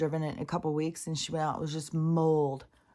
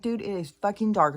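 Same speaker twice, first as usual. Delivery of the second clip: exasperated retort; 5 semitones higher, 5 dB louder than usual. Retold or imitated. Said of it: "It's like".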